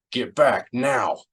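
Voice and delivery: sharp order in character; urgent command. A narrator's reading. Han orders the droid to cover, urgent and commanding.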